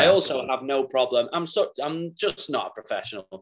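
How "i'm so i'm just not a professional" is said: giggling through the confession; words bubbling with real laughter; laughing while talking. Real, not acted. Telling a podcast host about stage pranks, giggling. Laughs admitting own mischief.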